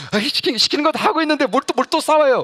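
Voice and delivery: high, loud whiny complaint; exasperated protest. Retold or imitated. Pastor protests to the Lord, high and exasperated. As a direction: protest that he is already fighting.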